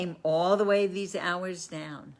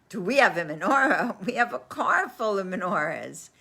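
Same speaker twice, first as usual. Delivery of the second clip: amused retort; 3 semitones higher, 3 dB louder than usual. Retold or imitated. Rabbis answer, amused.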